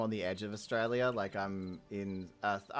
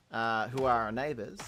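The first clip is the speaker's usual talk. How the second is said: normal talking voice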